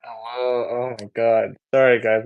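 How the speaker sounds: hoarse, just-woken voice; rusty unused voice. Real, not acted. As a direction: sound rough and freshly woken up. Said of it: "Apologies for the rusty voice".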